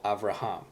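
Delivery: Avraham as av-ra-HAM; stress on last syllable. Shown as a demonstration. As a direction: put the weight on the end of Avraham. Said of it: "The accent is on the last syllable".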